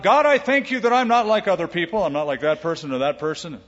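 preen like a self-satisfied Pharisee; preacher imitates a Pharisee praying out loud, lightly smug; boastful Pharisee. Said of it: "he prays out loud".

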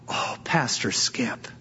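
slow, soft, low sigh of relief; imitating a relieved greeting. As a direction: draw it out softly, as a relieved churchgoer. Lady greets pastor with relief.

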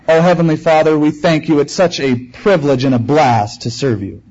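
lightly imitated Southern California accent in prayer; a hint of laid-back Southern California pastor accent. Pastor praying before his congregation, lightly imitated Southern California accent. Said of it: "praying before his congregation in his Southern California accent".

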